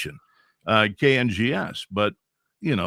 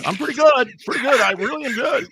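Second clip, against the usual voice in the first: retold eager boast; 14 semitones higher, 7 dB louder than usual. Retold boasting to station boss.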